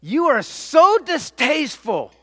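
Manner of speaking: loud, high, exasperated outburst; disgusted Pilate. Retold or imitated. Pilate fed up with the bloodthirsty crowd, loud and high. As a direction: spit out the distaste. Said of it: "Pilate's going".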